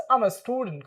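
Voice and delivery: "I'm a student" with I am blended into one syllable; contracted I'M. Shown as a demonstration. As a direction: link "I'm a" smoothly into student. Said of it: "क्या pronounce करेंगे?". ("I'm" को मिलाकर बोलो)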